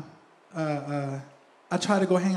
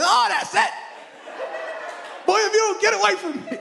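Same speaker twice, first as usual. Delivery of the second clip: much higher, louder, fast half-laughing yell; exasperated shout; 3 dB louder, faster than usual. Retold or imitated. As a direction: blow up at the kid, laughing as you retell it. Son slaps glasses off his face.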